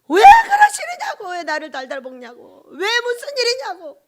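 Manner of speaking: retold anguished "why" to God; crying out in protest. Preacher re-enacts pleading with God over suffering, wailing protest. Acting own cry to God.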